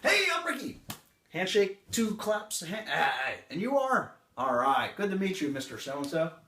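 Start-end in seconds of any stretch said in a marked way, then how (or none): 0.0-0.8 very high, loud hammed-up greeting; stereotypical salesman. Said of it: "Here comes the stereotypical guy". 2.9-6.3 stereotypical salesman. Acted. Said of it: "Here comes the stereotypical guy".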